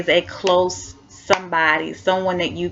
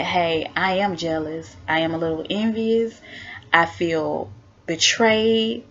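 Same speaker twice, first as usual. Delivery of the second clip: honest confession; slower than usual. Shown as a demonstration. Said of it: "You're letting yourself know that".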